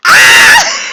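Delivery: startled yelp, very high and loud; a sudden shriek of pain; sharp cry. Acted. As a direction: Dexter yelping out loud. Dexter cries out.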